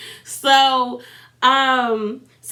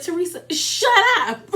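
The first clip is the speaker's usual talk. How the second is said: laughing; 6 semitones higher than usual. Real, not acted. Laughing at a friend's rant.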